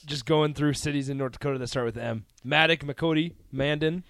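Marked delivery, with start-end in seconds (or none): 2.5-4.0 roll call. Real, not acted. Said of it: "Sounds like you're doing roll call".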